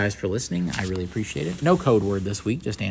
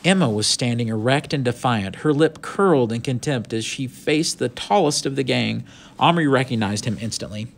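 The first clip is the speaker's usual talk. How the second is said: story narration; 3 semitones higher, 3 dB louder than usual. A narrator's reading. Reads the story aloud.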